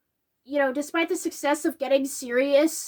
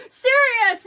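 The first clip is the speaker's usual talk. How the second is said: sharp shout of a name after someone; calling out; 8 semitones higher, 5 dB louder than usual. Retold or imitated. Harry chasing Sirius, shouting his name. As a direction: yell the name as he runs off. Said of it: "bolts after him going".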